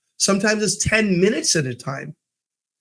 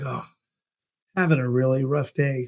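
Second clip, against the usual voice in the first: low-energy, softer mock grumble; dejected bellman; 3 semitones lower, 4 dB quieter than usual. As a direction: imitate a coworker moping. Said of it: "he's looking dejected".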